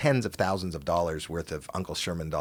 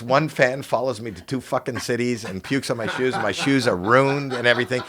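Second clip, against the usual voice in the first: lightly imitated indignant rant, raised pitch; mock outrage; 5 semitones higher, 5 dB louder than usual. Comic retells Lou griping about ruined shoes, mock outrage. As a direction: complain like an aggrieved victim, mildly hammed-up.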